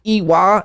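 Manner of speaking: "Iwa" sounded as ee-wah, with a W; spelling pronunciation. Shown as a demonstration. Host explains his old confusion, "Iwa" with a W. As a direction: read "Iwa" as it looks, with a W. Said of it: "It looks like it's".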